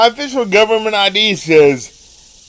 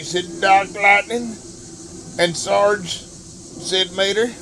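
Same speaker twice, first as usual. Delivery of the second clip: terrible Larry the Cable Guy. Acted. Reading Deputy Mater aloud to listeners, in a hammed-up redneck Southern accent. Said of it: "that was me doing a terrible Larry the Cable Guy impersonation".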